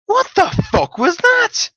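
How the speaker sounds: high, loud, slow disbelieving cry; shocked outburst. Retold or imitated. Stunned player asks.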